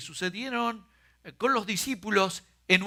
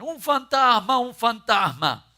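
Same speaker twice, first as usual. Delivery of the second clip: a lightly acted scared shout; mock frightened cry; 6 semitones higher, 6 dB louder than usual. Preacher retells disciples shouting in mock fright. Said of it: "se asustan".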